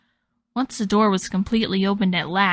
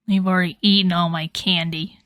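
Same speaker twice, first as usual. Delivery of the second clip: grumbling. Acted. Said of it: "Clover grumbled".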